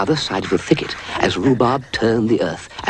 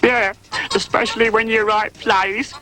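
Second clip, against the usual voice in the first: high teasing cat voice; mocking cat. A narrator's reading. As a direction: needle Rhubarb. Custard mocks Rhubarb.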